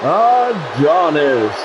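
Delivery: long drawn-out announcer call; wrestling ring announcer. Pretend. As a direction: stretch the name like a ring announcer. Echoes the game's ring announcer.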